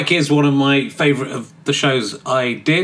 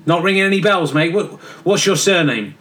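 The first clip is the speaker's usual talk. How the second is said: cheeky geezer John; 2 semitones higher than usual. Acted. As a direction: play John as a careless lad in a cell. John the Baptist as bloke.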